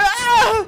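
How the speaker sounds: short yelp; startled cry. Real, not acted. Player caught by surprise in the chase, short cry. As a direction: yelp in alarm. Scare in the game.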